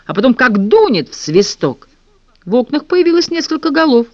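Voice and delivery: ordinary delivery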